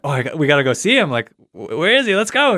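rising high, fast and eager; excited. Retold or imitated. Fast, eager retold excitement climbing high. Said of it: "then you're excited".

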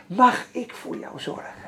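soft whispered question, repeated; tender whisper. Retold or imitated. Preacher repeats God's loving offer to the congregation, whispered. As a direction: breathe it out gently, no voice. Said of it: "Het klinkt al zo liefelijk".

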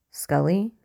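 worried, rising question; a hint of alarm in the call; questioning concern. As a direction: call her name, unsure what's wrong. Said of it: "his voice all questioning concern".

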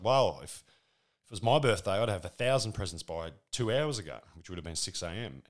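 put-on loud whiny kid; imitating a whining daughter; daughter's voice. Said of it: "She's like".

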